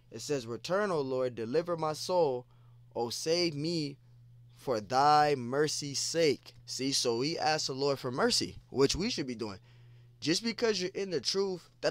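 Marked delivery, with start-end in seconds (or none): 0.5-6.5 slow, swelling plea, louder at the end; pleading scripture reading. Acted. Preacher voicing David begging the Lord for mercy, slow and swelling. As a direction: draw it out as a cry for mercy.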